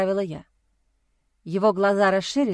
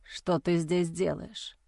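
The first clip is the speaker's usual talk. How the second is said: slow, soft, lower, groggy question; barely surfacing from the haze; dazed hurt young man; 5 semitones lower, 7 dB quieter, much slower than usual. Acted. Dazed injured man asks. (слабый, заторможенный голос раненого)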